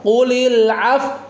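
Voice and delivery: Qulil af- with lips pushed forward, slow; lips pursed. Shown as a demonstration. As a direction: round the lips into a pout on af-. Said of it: "baru monyong".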